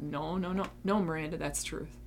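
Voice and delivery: soft but firm, correcting herself; firm self-reassurance. Retold or imitated. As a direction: gently overrule the doubting part. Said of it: "Even if I have to go".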